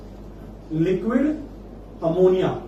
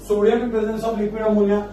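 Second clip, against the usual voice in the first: slow dictation; 3 semitones higher, much slower than usual. Shown as a demonstration. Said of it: "dictating the reagent to students".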